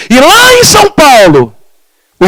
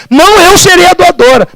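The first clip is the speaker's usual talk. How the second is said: insistent declaration; 7 semitones higher than usual. Retold or imitated. Mother-in-law insists she will donate.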